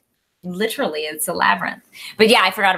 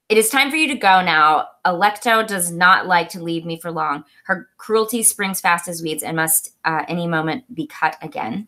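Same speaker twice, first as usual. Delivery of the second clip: measured, slightly lower literary read; reading aloud; 4 semitones lower than usual. Acted. Reading a favorite book quote to co-host, measured read-aloud. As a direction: read the passage out deliberately.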